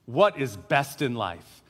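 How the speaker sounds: low, slow, drawn-out tyrant question; lightly voiced warlord asking at a feast; a hint of a warlord. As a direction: savour each word like a brooding conqueror king. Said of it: "He says".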